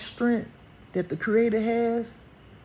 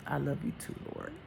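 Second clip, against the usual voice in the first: soft, low reply; quietly answer, close to tears; moved, tender; 6 semitones lower, 10 dB quieter than usual. Real, not acted. Speaker answers the Lord's words, hushed and moved.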